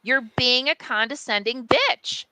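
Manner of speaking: imagined outburst, incredulous and indignant; exasperated. Retold or imitated. Publisher almost emailing the publicist after recap, exasperated. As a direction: vent the reply you almost sent.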